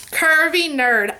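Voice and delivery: slow, relishing the name; savoring the name. Shown as a demonstration. Vlogger reading a subscriber's name, savoring it. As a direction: roll the name out with delight. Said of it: "I just wanna say it one more time".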